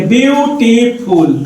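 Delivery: ब्यूटीफुल split as ब्यू, टी, फुल; syllable by syllable. Shown as a demonstration. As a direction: say ब्यूटीफुल in three separate syllables. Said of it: "इसको जब हम लोग तोड़ेंगे". (ब्यूटीफुल को तोड़कर, ब्यू-टी-फुल बोलें)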